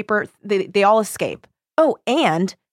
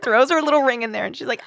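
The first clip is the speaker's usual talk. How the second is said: ordinary talk, nothing marked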